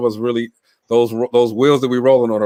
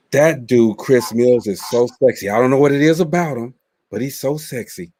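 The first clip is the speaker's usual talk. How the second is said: lightly voiced swooning woman; a hint of a smitten female friend, slowing at the end; imitated admiring woman. Retelling a friend's crush on Chris to the group, lightly voiced swooning woman. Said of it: "Don't say it in that voice".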